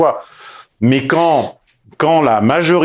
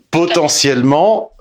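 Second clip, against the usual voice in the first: slow, higher POTENTIELLEMENT; insistance sur POTENTIELLEMENT; 5 semitones higher than usual. Real, not acted. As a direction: draw out POTENTIELLEMENT on a raised pitch. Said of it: "je dis bien potentiellement". (« potentiellement » appuyé, lent et plus aigu)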